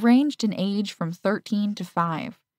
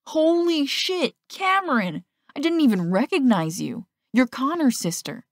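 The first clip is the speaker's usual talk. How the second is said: much higher, slowed stunned exclamation; shocked; 7 semitones higher than usual. A narrator's reading. Teammate stunned at seeing his friend's sister, shocked. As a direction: blurt it out, floored. Boy shocked by her new look.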